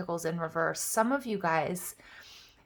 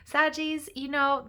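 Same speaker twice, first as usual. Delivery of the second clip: excited; 7 semitones higher, 3 dB louder, slower than usual. Real, not acted. Moved reader calls out to audience.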